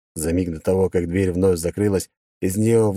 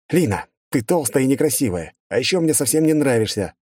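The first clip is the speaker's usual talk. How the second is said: higher, deliberately cruel shout; mock insult yell; 6 semitones higher than usual. A narrator's reading. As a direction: hurl the insult on purpose. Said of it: "выкрикнул я".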